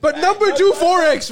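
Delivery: loud, high, triumphant; excited shout. Real, not acted. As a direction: announce it like a win. Loud reply after being right.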